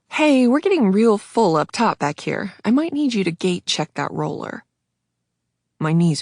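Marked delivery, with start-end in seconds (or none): 0.1-4.6 flight attendant. Acted. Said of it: "the flight attendant stopped me".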